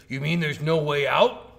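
imitating an indignant, incredulous question, rising loudly on "out"; mock outrage, drawn out with a questioning lift; pissed off. Game character challenging the player on the exit, pissed off. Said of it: "and then he's pissed at you".

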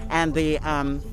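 muffled behind a face mask; speaking through a covered mouth; through a plague doctor mask. Real, not acted. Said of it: "can you understand me through this mask?".

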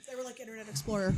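yawning while talking. Real, not acted. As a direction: talk through a yawn. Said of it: "Sorry, I was yawning".

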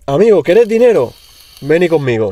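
imitating an Argentine host offering money; a hint of an Argentine accent.

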